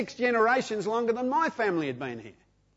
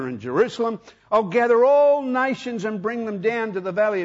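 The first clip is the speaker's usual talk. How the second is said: raised, solemn scripture reading. Acted. Reads scripture aloud.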